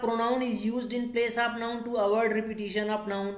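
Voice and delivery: slow, word-by-word read-out of the definition; teacher reading the written definition at dictation pace. Shown as a demonstration. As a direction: dictate the rule slowly. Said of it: "आगे लिख रहा".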